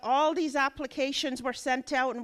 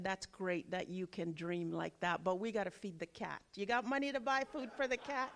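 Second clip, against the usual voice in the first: hushed retort; 5 semitones lower, 9 dB quieter than usual. Retold or imitated. Mother's reply, hushed and quick.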